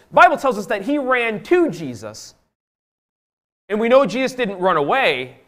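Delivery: high, forceful pulpit voice; emphatic preaching. Real, not acted. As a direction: preach it out with punched key words.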